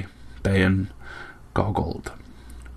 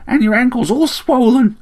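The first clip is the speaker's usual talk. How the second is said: higher-pitched little bird voice; chirping sparrow; 3 dB louder than usual. A narrator's reading. Sparrow fusses over Slayle's injuries, chirping. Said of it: "chirped the sparrow".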